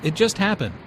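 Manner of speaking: "just" stressed to mean very recently; emphasis on "just". Acted. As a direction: lean on the word "just". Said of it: "Notice the stress on just".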